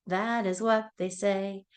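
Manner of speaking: sing-song nursery rhyme voice; reading to a toddler. Acted. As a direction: chant it brightly for little kids. Sing-song animal rhyme for kids.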